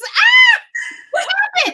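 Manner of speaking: very high, very loud swooping shriek. Retelling the mother's reaction on seeing the face: imitating someone screaming. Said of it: "The woman screams".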